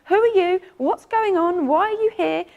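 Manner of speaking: high, bright-eyed cat asking questions; cat greeting a visitor at the door, high and eager; curious cat voice. Acted. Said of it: "she is the first cat on the scene".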